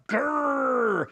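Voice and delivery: a playful mock growl; deep throaty growls. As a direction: growl at the viewers in jest. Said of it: "if I don't see those subscriptions going up".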